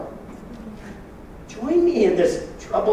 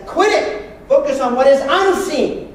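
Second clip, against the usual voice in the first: stern command; 3 semitones higher, 4 dB louder than usual. Retold or imitated. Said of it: "Paul says".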